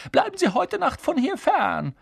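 high, croaky ghost disguise; put-on croak, haughty. A narrator's reading. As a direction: rasp it out as a feigned phantom. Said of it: "krächzte Harry".

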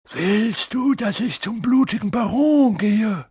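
high, loud warning; shouted threat. A narrator's reading. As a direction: threaten him at the top of your voice. Prefect threatens the poltergeist.

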